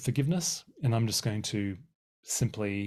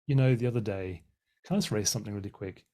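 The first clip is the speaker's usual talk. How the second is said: gentle raising. Shown as a demonstration. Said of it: "a really helpful way is to say".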